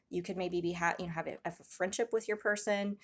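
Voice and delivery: usual speaking voice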